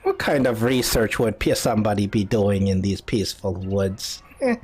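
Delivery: put-on inquisitive old woman; old lady. Old lady asks about the wizard's research, old lady voice. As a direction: keep questioning as an old hut dweller. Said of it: "this old lady comes out".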